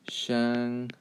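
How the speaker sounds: "Shanghai" with a short a as in hang; anglicized "Shanghai", broken in two; wrong pronunciation. Shown as a demonstration. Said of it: "Please don't say Shanghai".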